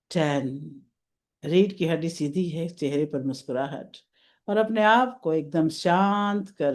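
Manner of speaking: unhurried meditation voice with long pauses; guided meditation. Real, not acted. Guiding evening meditators through an imagined garden, spacious meditation delivery. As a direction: lead them gently into relaxation, phrase by phrase.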